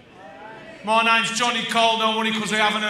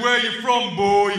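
put-on American general's drawling accent; 4 semitones lower, 3 dB louder, slower than usual. Fat American general addressing the visiting entertainer, American accent. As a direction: question him in an American military accent. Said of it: "fat American general, you know, the type".

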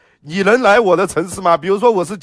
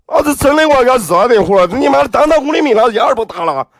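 fuming; 3 semitones higher, 4 dB louder, faster than usual. Real, not acted. Fuming rant after the quarrel.

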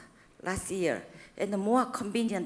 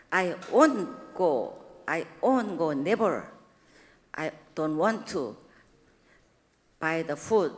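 indignant vow; 5 dB louder than usual. Retold or imitated. Preacher retells her refusal to eat at the restaurant, loud. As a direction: plant your feet and refuse. Vows to boycott rival restaurant.

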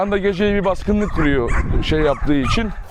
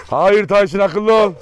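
firm scolding; 3 semitones higher than usual. Real, not acted. Owner correcting the dog Tyson, firm raised voice. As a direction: tell the dog off firmly.

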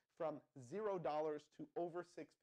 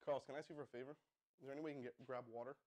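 softer, with a dry, choking throat; 5 semitones lower, 4 dB quieter, much faster than usual. Real, not acted. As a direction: speak through a dry throat, asking for water. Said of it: "Sorry, I'm choking out".

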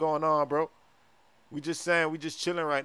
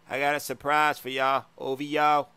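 lower, sustained singsong tone; singsong rapper; 3 semitones lower than usual. Acted. A rapper promises friends a surprise, droning singsong. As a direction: speak on one held note. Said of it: "sounds like he's singing or something".

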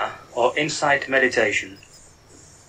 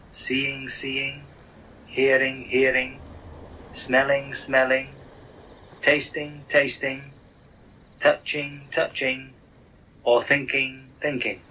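level, evenly paired words with pauses; measured, monotone noting of each sense; mental noting. Shown as a demonstration. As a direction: recite each label twice on a level tone. Demonstrates the mental noting labels.

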